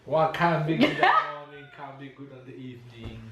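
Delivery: American attempt at patois. Shown as a demonstration. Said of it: "your mom is just the expression".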